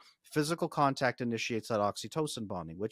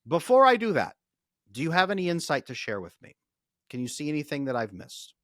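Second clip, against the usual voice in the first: earnest magic words; 3 semitones higher, 7 dB louder than usual. Shown as a demonstration. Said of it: "you say these magic words".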